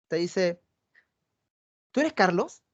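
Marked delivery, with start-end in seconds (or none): 1.9-2.6 pregunta "¿Tú eres Carlos?" con subida curiosa al final; interesada. Shown as a demonstration. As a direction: una chica que se alegra de verlo. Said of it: "Un mismo mensaje dicho de diferente manera". (chica interesada, pregunta con entusiasmo)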